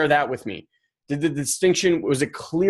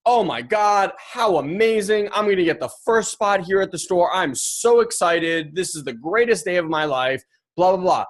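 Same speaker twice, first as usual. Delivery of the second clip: imagined excitement; 4 semitones higher than usual. Retold or imitated. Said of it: "That guy could be sitting in his car going".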